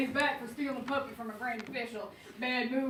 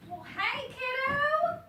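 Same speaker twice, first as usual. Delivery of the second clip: a lightly raised, brash huckster voice; gruff street vendor; 9 semitones higher, 5 dB louder than usual. Acted. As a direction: sell rats like a pushy street hawker. Abel hawks rats to kid.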